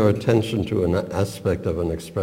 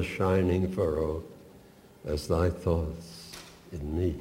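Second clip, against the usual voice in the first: expressive poem reading. Acted. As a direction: read the love poem tenderly, letting lines fall. Reads the whole poem aloud.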